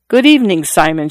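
put-on young girl at the fence greeting her sweetheart coyly; small coy voice. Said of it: "in her small, coy voice".

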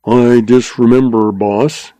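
mildly sour, surly ramrod. Acted. Surly ramrod dodges the boss's question, sourly. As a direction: answer the boss with a sour edge. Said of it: "he said sourly".

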